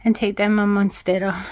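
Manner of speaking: breathless after painting; out of breath. Real, not acted. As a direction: puff through the words. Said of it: "I'm so out of breath".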